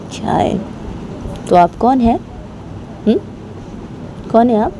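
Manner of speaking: Rama talking back. Acted. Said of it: "Rama वो बानी की दादी को बोलती कि".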